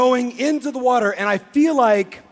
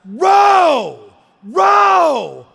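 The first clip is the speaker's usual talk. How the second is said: higher, louder shouted command; screaming; 6 semitones higher, 7 dB louder than usual. Retold or imitated. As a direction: bark the order at the crew. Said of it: "screaming at us".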